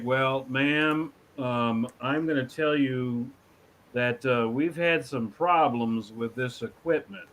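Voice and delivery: lightly voiced slow Texan; slow Texas drawl. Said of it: "somebody on the line from Texas".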